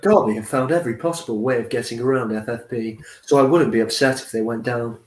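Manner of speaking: put-on lightly posh English accent. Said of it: "with that posh voice".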